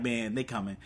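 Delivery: low, soft uneasy retelling; resigned, dropped-down voice; mock dismay. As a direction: imitate someone who knows trouble is near. Retelling Bucky's worried reaction.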